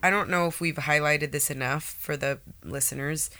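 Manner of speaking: sniffly nasal voice from a cold; stuffy, nasal voice with a cold; nasally voice. Real, not acted. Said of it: "I apologize for my sniffly, nasally voice".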